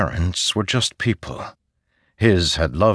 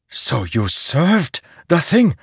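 demanding; 9 semitones higher, slower than usual. A narrator's reading. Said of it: "Szeth demanded".

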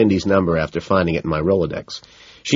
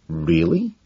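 concerned; 11 semitones higher than usual. A narrator's reading. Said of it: "a concerned McDermott asks".

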